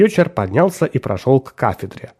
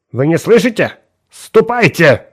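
irritated; 5 semitones higher than usual. Acted. Irritated professor dismisses student.

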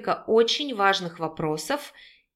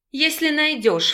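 scoffing snort; 7 semitones higher than usual. A narrator's reading. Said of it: "фыркнул Виджай".

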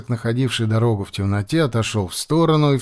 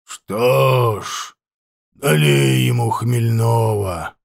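slow, rasping voice from the dark; hoarse voice; much slower than usual. Acted. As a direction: rasp it out like an old chieftain. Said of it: "раздался хриплый голос".

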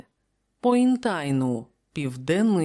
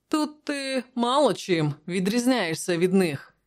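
lightly amused, pitched higher; smiling Prospero; 4 semitones higher than usual. Acted. Prospero teasing Conan about his people, smiling. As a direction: tease him with a slight smile. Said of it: "посміхнувшись, сказав Просперо".

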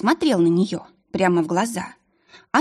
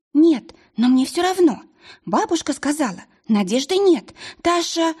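put-on distraught girl; 8 semitones higher than usual. Frightened girl telling the witch there is no hope. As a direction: blurt it out in despair.

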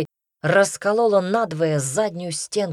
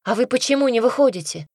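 put-on high-pitched girl's question; lifted girlish voice, rising high; 8 semitones higher, 4 dB louder than usual. A narrator's reading. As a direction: call out a puzzled question from behind a wardrobe. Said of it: "раздался из-за шкафа голос девушки".

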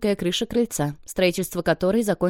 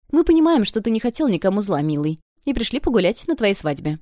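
effusive aunt; 3 semitones higher than usual. Acted. Aunt reassures nephew, loud start.

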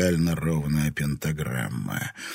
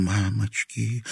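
whispered fear; 3 semitones higher, 3 dB quieter, slower than usual. Acted. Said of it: "испуганно прошептала Марина".

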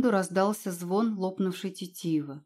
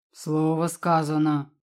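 ordinary delivery, nothing marked

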